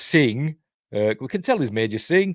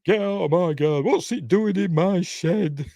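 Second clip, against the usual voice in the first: a higher, put-on shouty Donna; mock Donna telling off an intruder; Donna's voice; 9 semitones higher than usual. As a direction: play the indignant homeowner in a higher voice. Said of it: "he hears Donna's voice".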